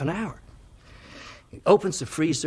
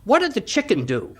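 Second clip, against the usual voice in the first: high parrot voice for the punchline; raised, bird-like pitch; 8 semitones higher than usual. Acted. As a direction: ask it as a chastened talking bird. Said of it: "He says".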